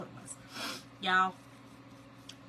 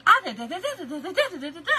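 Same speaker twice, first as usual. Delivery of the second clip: fast, loud mock rant to her husband; hammed-up rant; 5 semitones higher, 10 dB louder, faster than usual. Wife listing chores to her husband, in a loud laughing rant. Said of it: "That's how I would do it".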